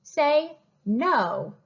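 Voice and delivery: a sly, knowing no; no with a know-it-all lilt. Shown as a demonstration. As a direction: say no like you know something. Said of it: "like I know something".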